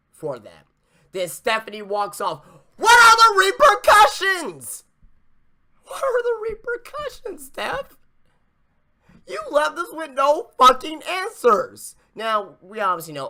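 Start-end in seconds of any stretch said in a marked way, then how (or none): 2.8-12.0 high, loud demanding yell; indignant shout. Real, not acted. Host yelling at Stephanie for leaving no answers.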